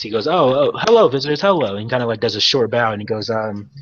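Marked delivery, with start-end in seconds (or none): 0.3-1.8 a touch higher, eager to please; lightly voiced fawning welcome; appeasing, bowing host. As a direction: greet them like a nervous, overly polite dockmaster. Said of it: "appeasing statu-, like, stance".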